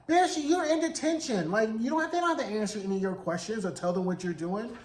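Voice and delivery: sassy retort. Retold or imitated. Speaker's own sassy retort.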